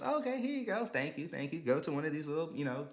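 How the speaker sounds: high, chirpy imitation of the poll worker. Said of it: "She goes".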